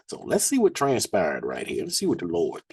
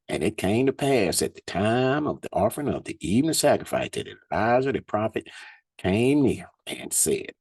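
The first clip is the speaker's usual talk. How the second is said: scripture reading; 3 semitones higher than usual. Acted. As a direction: lift the verses up like a preacher. Reads scripture aloud.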